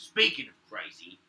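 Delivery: a loud high outraged cry, slowed down; mocking yell. Guard yelling at the fish-bringer, outraged. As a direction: yell it in disbelief. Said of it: "He goes".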